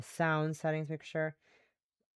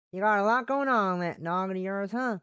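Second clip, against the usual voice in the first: lightly voiced Southern woman; folksy, with a hint of Southern accent. Remarking on a busy noggin, in a light Southern accent. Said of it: "one female Western Southern voice".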